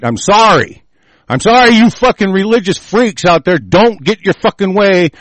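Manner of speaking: loud, sneering fake apology; mock sorry, then rage; sarcastic apology. Real, not acted. Ranting at religious critics.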